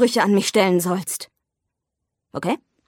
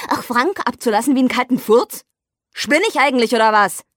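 upset outburst; 4 semitones higher than usual. Acted. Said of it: "reg dich doch nicht so auf".

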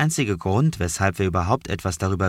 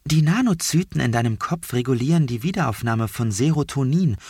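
a lightly voiced companion, pitched higher; higher character voice; 5 semitones higher than usual. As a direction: explain it in a higher, brisk voice. Vieh's lines voiced higher.

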